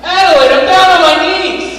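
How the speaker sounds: pleading. Acted. Pleading loudly.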